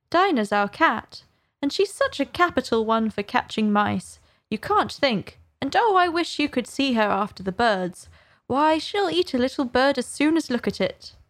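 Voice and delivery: keen, bright-tempo chatter about her cat; eager. Acted. Alice eagerly telling the birds about her cat. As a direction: show off her pet proudly. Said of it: "Alice replied eagerly".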